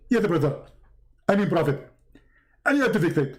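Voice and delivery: lightly mimicked preacher, falling phrases; Zakir Naik as Jibreel. Angel answers Muhammad, lightly hammed preacher impression. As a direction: correct yourself in a mock preacher voice. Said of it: "You look like Zakir Naik".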